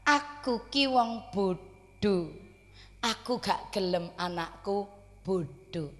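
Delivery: slow, soft humble mother's words; lightly voiced humble mother, slow; quoting the mother. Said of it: "jawabannya mengeten". (suara ibu sederhana yang pelan dan lirih)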